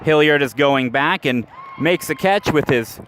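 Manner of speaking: rising excited play-by-play call, shouted. Real, not acted. Announcer calling a catch at the wall for listeners, excited shout. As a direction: call the catch as it happens, voice climbing.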